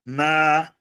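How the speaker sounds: syllable by syllable. Shown as a demonstration. Teacher writing the example for students, syllable by syllable. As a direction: break ANALISE into long separate syllables.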